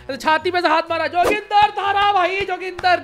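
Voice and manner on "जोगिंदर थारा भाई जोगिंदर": Joginder catchphrase. Retold or imitated. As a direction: call it out like the influencer's signature intro.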